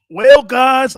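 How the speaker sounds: loud, high redneck twang; redneck accent. Acted. Imitating Jerry Jones on Dallas radio, loud redneck accent. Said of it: "I'm acting like a redneck".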